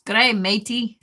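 playful mock Aussie greeting; lightly hammed-up Australian hello; Australian accent. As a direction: greet a mate in put-on Australian. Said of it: "Good eye is Australian".

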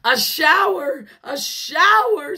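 high, loud, gleeful squeal; excited high-pitched shout; children's scream. A narrator's reading. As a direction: cry out like delighted kids. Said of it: "screamed Missus Ralph's four children".

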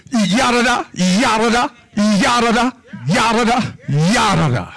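rattling off nonsense like a hissing snake; mock snake chatter. Preacher mocking the devil's rapid snake talk, lightly imitated. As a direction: mimic the snake's endless babble, lightly voiced. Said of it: "Snake don't spit one time his tongue out".

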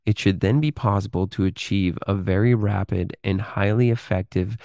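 measured, articulate reading of a written exposé; read-aloud narration. Acted. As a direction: read it out in deliberate phrases with pauses. Reads a written text aloud.

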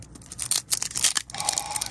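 long breath out, winding down; shaken sigh. Real, not acted. Card opener still shaking after the hit, long sigh. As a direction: let the excitement out in a sigh.

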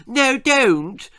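high, loud lisping wail; pleading cry. Acted. Little sister begging her brother not to tell, cried. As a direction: plead as a panicking little girl. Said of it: "she cried".

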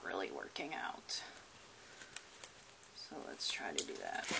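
hushed whisper. Real, not acted. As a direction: whisper so the animal stays calm. Quietly cutting the tape.

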